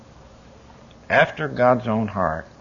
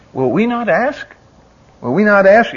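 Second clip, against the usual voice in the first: pressing the question harder, louder; rising preaching; 9 semitones higher, 7 dB louder than usual. Real, not acted. Preacher pressing his congregation, building louder. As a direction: repeat it, building in force.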